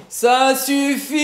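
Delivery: high, slow, almost sung bellow. Acted. Thug bellowing again at the calm master. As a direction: bellow with arms spread wide. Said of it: "s'époumonna de nouveau".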